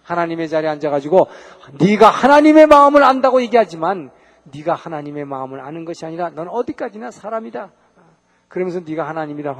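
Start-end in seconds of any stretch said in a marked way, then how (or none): 1.8-7.7 loud rebuke. Acted. Rebuking the proud angel.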